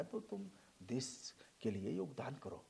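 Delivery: whispered advice. Retold or imitated. Advising the young man, as if present.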